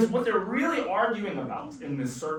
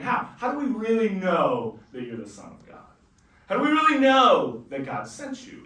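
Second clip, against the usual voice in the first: louder, rising challenge; demanding crowd; 5 dB louder than usual. Retold or imitated. Skeptical crowd challenging Jesus, loud and insistent. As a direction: demand proof from him.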